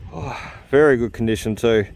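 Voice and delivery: breathless from digging hard; panting between words; out of breath. Real, not acted. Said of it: "I'm out of breath".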